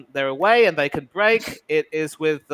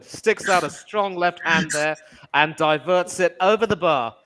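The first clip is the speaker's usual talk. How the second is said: slow, measured commentator read; match commentary. Acted. Fan mimicking a TV commentator, in commentary style. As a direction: call the save like a TV pundit.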